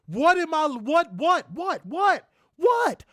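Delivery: incredulous. Real, not acted. Ranting about a wrestler's way of talking, incredulous.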